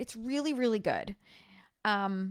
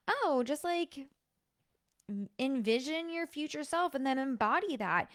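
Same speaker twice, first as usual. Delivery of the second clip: mock airy coach, pitched up; wishy-washy advice; 3 semitones higher than usual. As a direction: imitate someone tossing off vague advice. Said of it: "wishy-washy stuff like".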